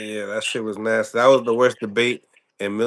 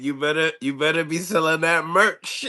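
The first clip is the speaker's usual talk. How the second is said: quoting the slogan; 3 semitones higher than usual. Retold or imitated. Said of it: "I like that slogan".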